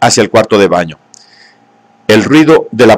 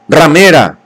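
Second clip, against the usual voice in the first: a jealous lover yelling at her; angry shout; 5 semitones higher, slower than usual. Acted. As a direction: spit the insult out in rage. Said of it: "gritó".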